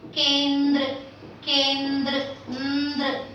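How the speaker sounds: "kendra" slowly, n, d and r run together; n-d-r cluster. Shown as a demonstration. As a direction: draw out "kendra" into a joined ndr. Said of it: "and ra in that order".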